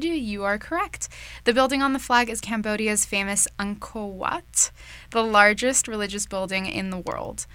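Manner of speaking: lively scripted show opening, punched at the start; radio host intro. Acted. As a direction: welcome the listeners like a campus radio host.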